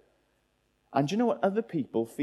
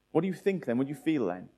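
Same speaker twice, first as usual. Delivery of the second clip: normal talking voice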